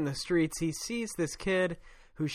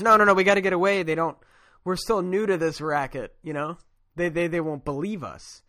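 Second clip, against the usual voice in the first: mock urgent. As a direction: hurry him away before the police come. Knuckles urgently refuses, acted quote.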